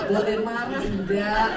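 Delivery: slow, meek request; gently imitated husband; polite asking. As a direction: ask permission, slowly and politely. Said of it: "Marah permisi loh".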